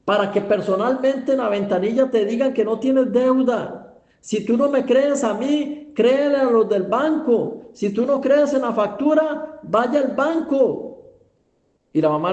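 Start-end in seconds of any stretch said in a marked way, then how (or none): 0.1-10.8 higher-pitched, exasperated persuasion; insistent urging. Acted. Son urges doubting mother to check at the bank, insistent. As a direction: press each point on a doubter.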